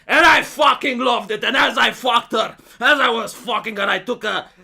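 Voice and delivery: swagger like a shameless candidate daring voters; brazen Romanian politician. Retold or imitated. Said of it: "the other guy".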